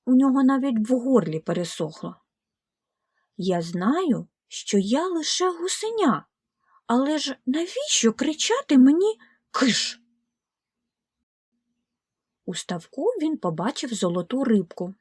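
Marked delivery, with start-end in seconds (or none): 3.4-10.0 sad gosling. Acted. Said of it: "Віллі засмутився".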